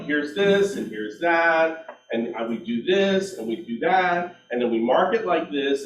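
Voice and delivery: mock salesperson reeling off features; rote sales pitch. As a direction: imitate an over-rehearsed listing presentation. Mimics own rote listing presentation.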